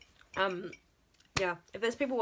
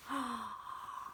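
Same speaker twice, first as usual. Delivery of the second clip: shocked gasp; 4 semitones higher, 8 dB quieter than usual. Pretend. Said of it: "That's Alonzo putting his horns on his mouth 'cause he's shocked".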